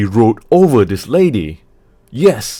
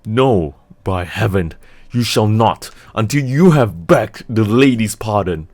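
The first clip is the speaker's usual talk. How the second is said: loud, higher, furious outburst; fiery passion; 4 semitones higher, 8 dB louder than usual. Acted. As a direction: explode with fury and demand an apology. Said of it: "the fiery passion broke out again".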